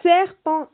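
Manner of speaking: long hissed S opening "Serpent", said loud and high; stretched initial S. Shown as a demonstration. Teacher has children listen for S in serpent, stretched initial S. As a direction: hold the first S of "Serpent" before the vowel. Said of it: "Est-ce qu'on entend le S?".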